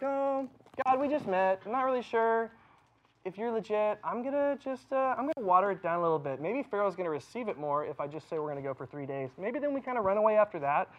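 a hint of a nervous Moses hedging; hesitant Moses. Pastor voicing Moses doubting God, mildly hesitant. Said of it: "Instead, he's like".

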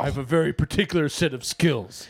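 put-on action-hero voice; Liam Neeson. Taken father citing his skills, mock menace. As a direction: recite the threat like a film hero. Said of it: "it's like Liam Neeson in Taken".

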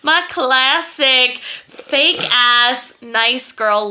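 slow Southern drawl; Southern accent. Real, not acted. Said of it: "Your southern voice coming in there".

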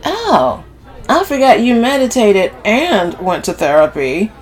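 high, loud, exaggerated sarcasm; sarcastic feigned remembering; mocking echo. A narrator's reading. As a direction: parrot the cousin's claim in mockery. Camille mockingly echoes Sylvie.

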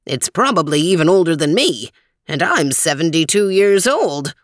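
lightly voiced old man, measured and helpful; a hint of a friendly old guide, unhurried; old man Weezer. Weezer admires fish.

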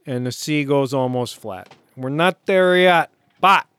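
punchy put-on Chicago sports-fan accent; old comedy-sketch Chicago Bears fan accent. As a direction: ham up a Chicago accent in short bursts. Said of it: "Chicago Bears throwback to the old Saturday late night".

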